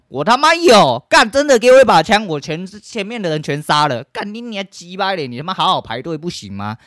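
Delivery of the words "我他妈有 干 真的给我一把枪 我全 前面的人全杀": loud, high furious yell; furious shout. Real, not acted. Ranting about the queue at the temple, furious loud yell. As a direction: explode with real rage.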